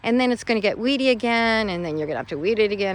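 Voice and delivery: rising, fast panicked rant; mock panic. Gardener panicking over an overgrown bed, mock frantic rant. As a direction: spiral into gardening panic, hammed-up. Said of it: "I am panicking, like".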